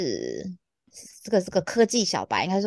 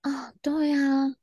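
slow breathy whisper; 6 semitones higher, much slower than usual. Real, not acted. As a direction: breathe it in awe. Reacting softly.

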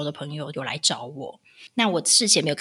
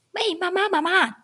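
much higher hailing call; calling out "mom"; 12 semitones higher than usual. Retold or imitated. Stranger on the street hailing a mother, high calling voice. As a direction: shout for attention from afar, lightly.

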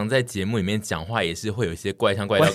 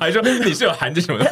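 sharp tone; 7 semitones higher than usual. Retold or imitated. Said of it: "而且是比较尖锐的口气".

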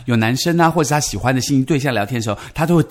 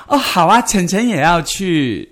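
put-on lightly cutesy, slow baby talk; a hint of a whiny little girl; 4 semitones higher, slower than usual. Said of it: "很多人就这样子啊".

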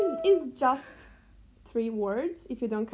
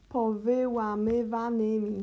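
each syllable of "powyłamywanymi" drawn out slowly and separately; slow syllable-by-syllable demo. Shown as a demonstration. Teacher slowly shows the learner the Polish word. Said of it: "you should do it slower".

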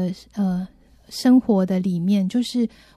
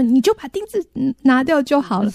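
high, lightly voiced husband; matter-of-fact husband; 4 semitones higher than usual. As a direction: offer the easy fix, mildly. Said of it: "他就是尝试跟他说".

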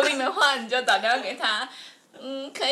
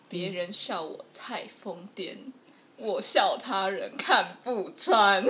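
reciting a film line; 3 semitones lower, slower than usual. Retold or imitated. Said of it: "它里面有一句话".

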